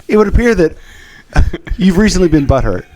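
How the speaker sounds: airline safety video. Pretend. Host pretending to film a safety brief, mock announcer. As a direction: sweet-talk it like a flight safety video. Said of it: "one of those airline safety brief videos".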